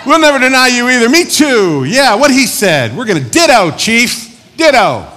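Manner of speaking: very high, loud mock chorus of followers; clamoring agreement. Disciples piling on agreement.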